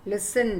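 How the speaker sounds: "लिसन" with no T, just S then N; silent T. Shown as a demonstration. Teacher showing the class silent T, "लिसन" without T. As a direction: say "लिसन" with the T left out. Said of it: "टी नहीं आया".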